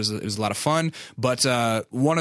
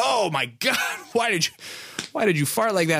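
high, shrill-free startled yell, pitched way up; startled outcry; 7 semitones higher than usual. Retold or imitated. On the bench, startled by a teammate's fart, yelling high.

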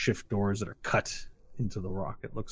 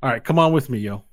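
raised, louder character voice; urging street-guy guide; 3 semitones higher, 7 dB louder, faster than usual. Acted. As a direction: hurry them along as a street guy. Game master plays the guide.

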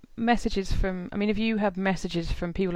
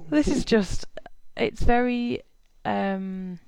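smiling through the words; beaming, delighted praise; grinning voice. Real, not acted. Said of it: "I just have a massive grin on my face".

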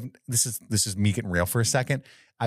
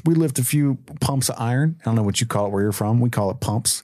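Kevin. Pretend. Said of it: "That's what he's telling Jay".

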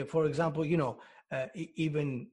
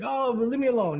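acted irritated brush-off, raised and louder; frustrated dad; 8 semitones higher, 7 dB louder, faster than usual. Dad home from work brushing off his kid, loud mock frustration. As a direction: play a dad fed up after work. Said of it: "all frustrated with his work".

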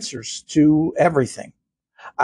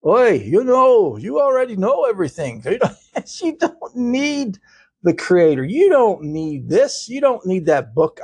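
a lightly voiced, higher, teasing tempter; Satan's voice; 3 semitones higher than usual. Host mocks Satan tempting listeners, lightly voiced sly devil. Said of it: "Satan's telling you".

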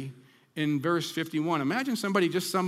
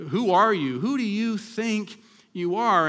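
indignant challenge; 5 semitones higher, 5 dB louder than usual. Acted. Preacher voicing the Pharisees' challenge.

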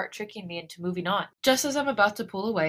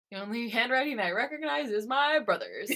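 laughing while talking; 5 semitones higher than usual. Real, not acted.

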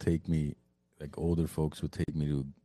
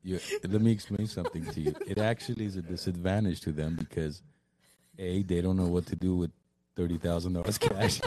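laughing retelling; 2 semitones higher than usual. Retold or imitated. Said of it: "I'm like".

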